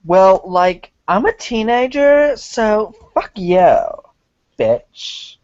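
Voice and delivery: mock bratty teen, pitch jumping up; snotty teen girl caricature; hammed-up bratty teenager; teenage girl voice. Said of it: "except for teenage bitch".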